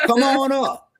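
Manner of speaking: laughing. Real, not acted. Taunting a troll to join.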